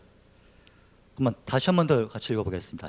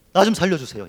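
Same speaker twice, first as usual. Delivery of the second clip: desperate cry; 4 semitones higher, 5 dB louder than usual. Acted. Preacher voicing Hannah's prayer, a loud desperate plea. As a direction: cry out as if facing death. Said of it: "죽음을 눈앞에 둔 사람의 절규에 가깝습니다".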